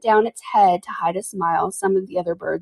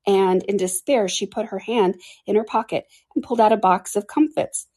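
ordinary delivery

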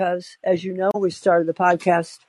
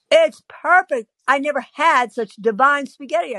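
pitched up, gushing reassurance; gushing high compliment; high overpraise; 6 semitones higher than usual. Retold or imitated. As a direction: insist it's wonderful, up high.

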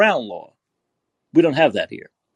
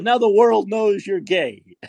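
slow, higher-pitched mock holler; retold yell; 5 semitones higher, slower than usual. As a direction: imitate a heckler's drawn-out taunt. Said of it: "and he yells at me".

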